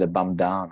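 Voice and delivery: mimicked "bandana", vowel stretched to "ah"; imitating newsreader's bandana. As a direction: say "bandana" as the TV newsman did, stretching "daaa-na". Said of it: "bloke on I T V News says".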